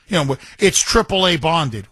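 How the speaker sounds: normal talking voice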